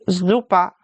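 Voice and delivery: "Super" with the S buzzed as a German Z; German "Super" opening on a clear Z sound. Shown as a demonstration. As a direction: say "Super" as ZOO-pah, German style. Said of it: "S sounds like a Z in German".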